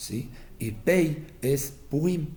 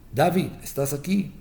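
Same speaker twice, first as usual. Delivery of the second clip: dying father calling; 4 semitones higher, 3 dB louder than usual. Retold or imitated. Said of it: "llamando en sus nombres".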